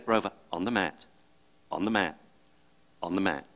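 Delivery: soft, steady, patient repeating; calm insistence. Retold or imitated. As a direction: settle the dog without ever raising your voice. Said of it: "the owner's calm insistence".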